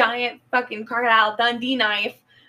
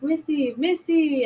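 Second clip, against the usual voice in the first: rising call, second louder; 4 semitones higher, 4 dB louder than usual. Retold or imitated. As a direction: call after her across the lobby. Calling after her in lobby.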